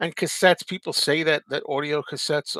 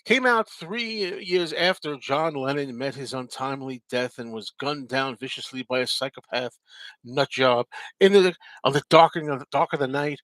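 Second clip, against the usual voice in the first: mock melodrama. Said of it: "Is it really necessary to say".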